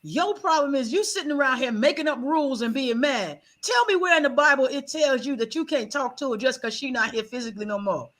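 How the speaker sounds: lightly voiced granny scolding her granddaughter; a hint of a stern grandmother setting her straight. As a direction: tell her off like a blunt grandmother. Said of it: "She said".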